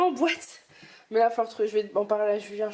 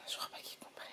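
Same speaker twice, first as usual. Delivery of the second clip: whispered aside; 20 dB quieter than usual. Real, not acted. Mother whispering to viewers about her toddler, whispered aside. Aside to camera near child.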